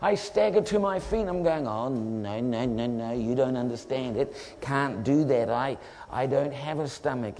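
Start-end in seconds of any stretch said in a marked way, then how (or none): 1.7-7.4 low, subdued mock pleading; dazed protest. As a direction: protest weakly in a lowered voice. Acted weak protest after staggering up.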